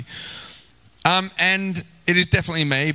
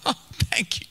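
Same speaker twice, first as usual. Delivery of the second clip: laughing thanks; 6 semitones higher, 6 dB quieter than usual. Retold or imitated.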